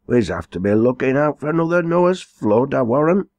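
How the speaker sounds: a chuckling village elder spinning a yarn, voice up high; gossiping old farmer joking to the crowd, lifted pitch. Acted. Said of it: "said a grey-headed old farmer".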